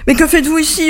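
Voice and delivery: storyteller's restrained version of a merchant yelling; mild narrated yell. A narrator's reading. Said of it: "hurla le marchand".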